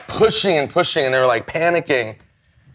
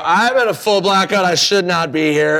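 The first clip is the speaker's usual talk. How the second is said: retold stage confession; 5 semitones higher than usual. Retold announcement to crowd from stage.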